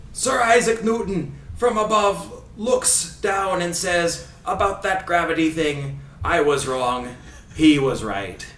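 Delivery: put-on grandly drawn-out Scottish commentator accent; theatrical Scottish commentator impression; Ray Hudson accent. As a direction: start high and slow in a put-on Scottish accent, come down in pitch to a loud finish. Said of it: "do my best Ray Hudson accent".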